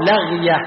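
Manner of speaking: لغية as lagh-ya, silent ghayn vowel; second variant of لغية. Shown as a demonstration. Teacher lists three variants, لغية said lagh-ya. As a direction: say لغية in two syllables, a after the l. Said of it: "ثلاث لغات الآن".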